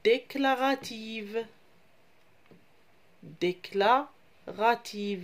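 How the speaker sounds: "déclarative" said slowly and deliberately, twice; teacher models "déclarative" slowly; slow model word. Shown as a demonstration. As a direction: spell it out in sound for young learners. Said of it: "Je répète les enfants".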